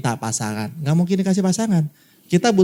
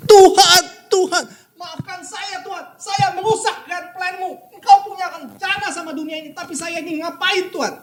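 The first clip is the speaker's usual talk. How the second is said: imitating tearful prayer; 14 semitones higher than usual. Preacher imitating the crying man praying to God, mock tearful. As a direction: mimic a grown man sobbing out a prayer. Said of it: "Dia nangis".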